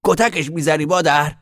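put-on high, eager child's question; hopeful little boy. A narrator's reading. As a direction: ask it like a kid hoping for a yes. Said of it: "با لحنی امیدوار پرسید". (سؤال امیدوارانهٔ پسربچه با صدای زیر)

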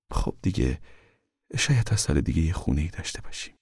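gentle, softened reassurance; consoling. A narrator's reading. Mother comforting father about their future, gently consoling. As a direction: comfort a downhearted husband softly. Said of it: "با لحنی دلجویانه".

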